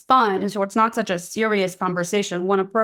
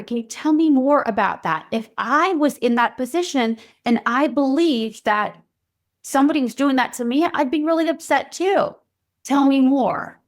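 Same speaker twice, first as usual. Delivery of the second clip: empathetic parent; 4 semitones higher than usual. Shown as a demonstration. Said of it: "That's when you can say".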